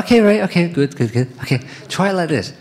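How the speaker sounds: mock encouraging director. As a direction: cheerfully nudge the actor along. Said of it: "she's like".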